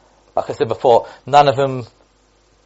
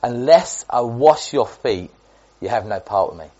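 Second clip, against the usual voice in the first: slow, solemn. Acted. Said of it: "this is really quite strong".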